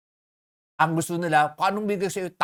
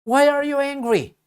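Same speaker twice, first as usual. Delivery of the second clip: the Lord asking; 11 semitones higher, 6 dB louder than usual. Acted. Preacher voicing the Lord's question.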